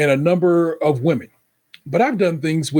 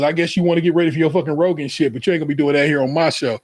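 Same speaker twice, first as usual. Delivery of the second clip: mock rant; faster than usual. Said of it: "he goes".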